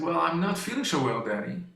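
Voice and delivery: a hint of a sick girl, dropping soft at the end; weak daughter. Father retelling his daughter's morning, a hint of a weak girl. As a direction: imitate her fading, unwell voice. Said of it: "She said".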